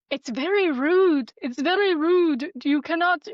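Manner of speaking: hammed-up reprimand, each phrase swooping; mock indignant scolding. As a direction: mimic a pompous telling-off. Imitating scammer demanding her attention.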